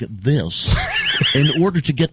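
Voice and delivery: lightly put-on self-important anchor voice; a hint of a special news person; mock news voice. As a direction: play a pompous newsman, slowing at the end. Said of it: "have to talk like this".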